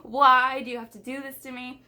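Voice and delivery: like the universe is out to get you; exasperated disbelief. Retold or imitated. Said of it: "and I was just like".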